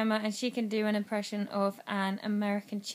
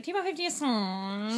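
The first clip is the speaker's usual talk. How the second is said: mock American accent. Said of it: "taking the piss out of hers".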